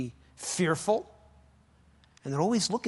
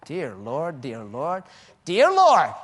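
prayerful cry; 7 dB louder, slower than usual. Retold or imitated. Quoting a convert's prayer.

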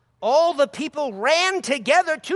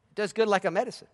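normal talking voice

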